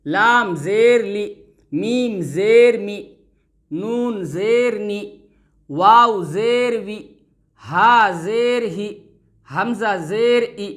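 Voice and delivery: slow, deliberate syllable-by-syllable recitation; slow recitation drill. Shown as a demonstration. Teacher recites every letter for students, slow and careful. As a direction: sound out each letter with a pause between.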